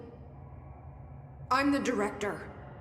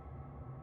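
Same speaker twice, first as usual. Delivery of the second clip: short, soft sigh; regretful sigh; 17 dB quieter than usual. Acted. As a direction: let out a quiet sigh of regret. Regretting the repaired nail.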